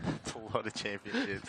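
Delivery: chuckling through that's a lot of championships; laughing. Real, not acted. Hammer thrower reacting to the record count, laughing. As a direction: let a laugh spill into it.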